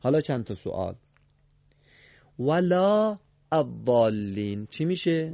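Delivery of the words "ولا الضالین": ولا الضالین drawn slowly, alef silent; slow recitation. Shown as a demonstration. Scene: teacher asks class how to read it, slowly.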